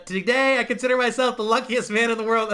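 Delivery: lightly hammed-up speech delivery; Norm Macdonald impression. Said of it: "it's Norm Macdonald doing that".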